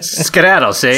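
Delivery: put-on Scottish accent. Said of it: "my Scottish accent for today".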